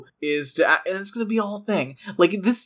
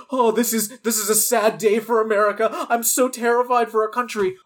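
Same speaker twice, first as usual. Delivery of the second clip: higher-pitched, hammed-up mock fear; overdramatic mock dismay; 5 semitones higher than usual. People reacting to a sad day for the country, mock overdramatic. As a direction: imitate someone being far too solemn and terrified. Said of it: "way too dramatic about this".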